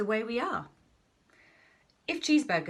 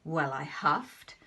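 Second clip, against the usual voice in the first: slow huffing; 2 semitones lower, much slower than usual. Acted. Wolf huffing before the sneeze.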